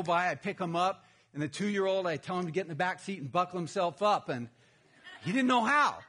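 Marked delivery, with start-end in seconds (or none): 5.2-6.0 laughing. Real, not acted. Laughing at the two-year-old's helplessness.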